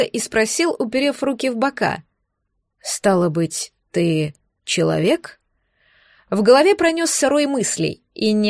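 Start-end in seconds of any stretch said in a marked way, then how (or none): 2.8-5.4 low, slow monster voice; deep, drawn-out creature question. Acted.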